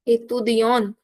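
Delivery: "Étudiant" said as feminine étudiante, final consonant sounded; weight on the closed last syllable of "Étudiant"; stressed feminine ending. Shown as a demonstration. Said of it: "I put more stress on feminine noun".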